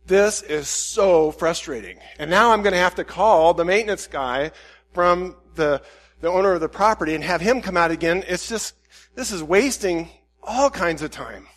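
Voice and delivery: mildly exasperated retold grumble; frustrated at God. Preacher retelling gas trouble to God, frustrated. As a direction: stretch the complaint out wearily. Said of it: "getting pretty frustrated at God".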